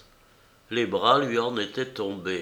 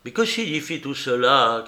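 shouted question; 4 semitones higher, 4 dB louder than usual. Acted. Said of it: "cria-t-il".

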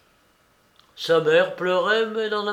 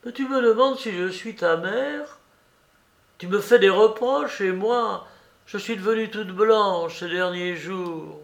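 put-on high, pleading voice of an old mother; an old mother begging her son to explain; old mother's plea; 6 semitones higher than usual. A narrator's reading. Old mother pleading with her condemned son, high and anguished.

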